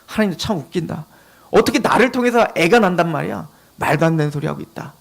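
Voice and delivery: mock an absurd promise under your voice; scoffing. Sarah scoffs at God's promise of a child, quietly scornful. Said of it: "사라도 비웃습니다".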